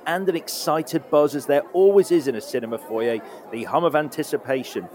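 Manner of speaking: theatrical festive scene-setting; podcast host sets a festive scene, theatrical host read; show host intro. Acted. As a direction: lead the guest into an imagined cinema. Hosts a festive movie segment.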